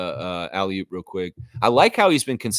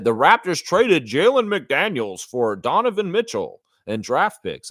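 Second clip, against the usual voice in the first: mocking Greenberg; 3 dB louder than usual. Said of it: "Jared Greenberg said".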